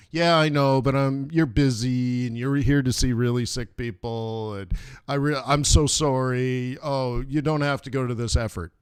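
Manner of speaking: hammed-up apologetic patient; over-apologizing patient. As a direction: keep apologizing like you're wasting their time.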